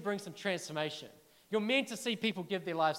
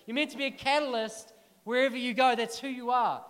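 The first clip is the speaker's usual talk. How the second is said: louder, rousing the crowd; fired-up preaching; 4 semitones higher, 4 dB louder than usual. Real, not acted. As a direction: push it harder to wake them up. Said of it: "Come on, don't be".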